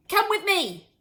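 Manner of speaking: high, loud command; excited father yelling. A narrator's reading. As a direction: yell it as an urgent order. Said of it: "Mister Cranky yelled".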